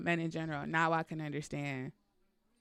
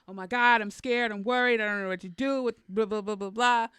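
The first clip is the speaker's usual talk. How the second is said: louder, higher, rushing mock panic about the lost dog; mock hysterical panic; 5 semitones higher, 8 dB louder than usual. Woman imagining her lost dog, hammed-up louder panicky rush. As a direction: pile on the worries like a hammed-up panicked girlfriend. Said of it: "I'd have been like".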